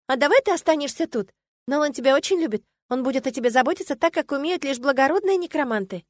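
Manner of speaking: persuading mare. A narrator's reading. The mare coaxing the heroine to stay with Nolan, eager. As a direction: talk her into staying, eager. Healed mare pleads sweetly.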